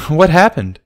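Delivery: eager to hear the story; light laughing ask; giggling question. Acted. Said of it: "asked Barry, giggling".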